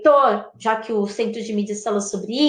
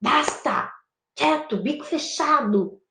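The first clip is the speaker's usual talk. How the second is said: hushing; 4 dB quieter than usual. Shown as a demonstration. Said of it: "de silêncio".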